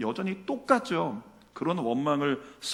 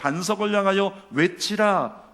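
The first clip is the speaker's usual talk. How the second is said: slow, loud quoted order; proclaimed divine command; 4 semitones higher, 5 dB louder, slower than usual. Retold or imitated. Preacher restating God's command about the rock, proclaiming. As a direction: declare it slowly and firmly.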